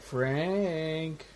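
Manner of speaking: put-on soft, lilting call of a name, like calling a kid out to play; lightly imitating a Cenobite calling the name softly; light child-like call. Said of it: "calls his name lightly as if calling a child out to play".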